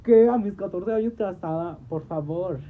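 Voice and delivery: loud indignant protest. Retold or imitated. Daughter protesting being married off, loud indignant. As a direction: protest in disbelief.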